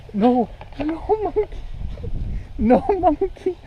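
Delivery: high, slow scolding of a monkey. Real, not acted. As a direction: tell the monkey off firmly.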